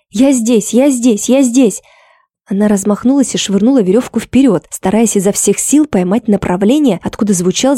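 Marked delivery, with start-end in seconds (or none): 0.1-1.8 calling out. A narrator's reading. Drowning man calling back.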